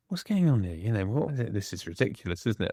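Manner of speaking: puzzled inner voice. Retold or imitated. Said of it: "I was thinking".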